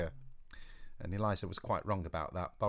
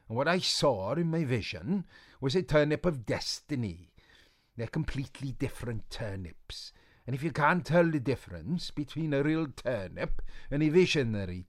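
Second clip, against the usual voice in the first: put-on higher, louder old witch voice; Boris; 4 semitones higher, 4 dB louder than usual. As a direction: snap back with dignity.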